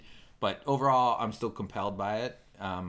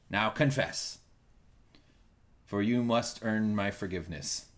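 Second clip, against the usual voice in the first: a lightly put-on solemn pope. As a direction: play a mock-grand pope demanding confession. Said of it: "I am now the Pope".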